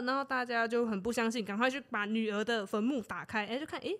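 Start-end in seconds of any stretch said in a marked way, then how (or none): none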